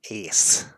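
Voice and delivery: "ace" set apart as a sample sound; isolated sound demo. Shown as a demonstration. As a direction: isolate "ace" with a long s at the end. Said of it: "which is not a sound we make in English often".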